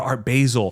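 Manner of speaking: "Basel" as "bay-zel"; boyfriend's mispronunciation. Retold or imitated. Boyfriend talking at Thanksgiving, mispronounced. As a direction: casually rhyme "Basel" with hazel. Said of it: "he kept saying".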